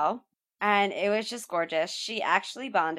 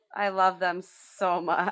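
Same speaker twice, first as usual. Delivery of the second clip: flat, unthrilled, sarcastic tone. Reacting to more celebrity couple news: unthrilled, sarcastic. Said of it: "I sound so thrilled".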